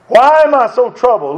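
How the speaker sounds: anguished question. Retold or imitated. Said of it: "Here's your answer".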